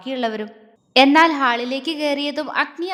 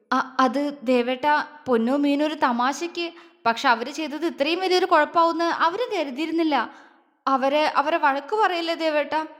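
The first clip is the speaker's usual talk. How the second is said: tearful pleading. Acted. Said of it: "ജ്വാല കണ്ണു നിറച്ചു".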